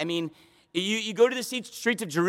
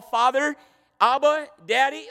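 pleading cry; 4 semitones higher, 4 dB louder than usual. Acted. Voicing Jesus pleading to heaven.

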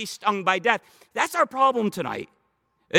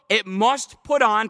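"put on" slowed and leaned on; "put on" drawn out firmly; stress on put on; 3 dB louder, slower than usual. Shown as a demonstration. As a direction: lean hard on "put on", not replace. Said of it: "please notice in fifty-three, not replace".

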